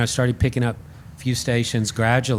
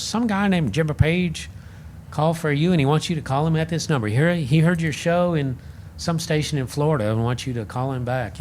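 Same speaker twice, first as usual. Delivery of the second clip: quoting a coworker, a bit higher; slightly raised, chatty coworker voice; lightly voiced coworker; 4 semitones higher than usual. Colleague's message quoted again.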